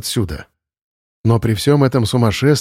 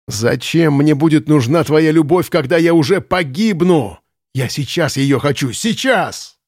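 shouting; 4 semitones higher than usual. Acted. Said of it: "крикнул Ленц".

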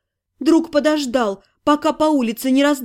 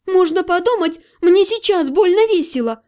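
moaning; 5 semitones higher than usual. Acted. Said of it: "простонала я".

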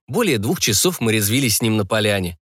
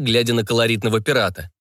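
ordinary delivery

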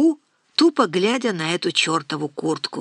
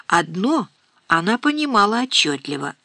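ordinary delivery, nothing marked

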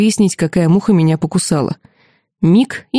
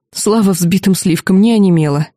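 ordinary delivery, nothing marked

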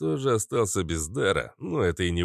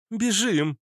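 shriek; 13 semitones higher than usual. Acted. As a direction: shriek a sudden warning. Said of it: "взвизгнула Иштар".

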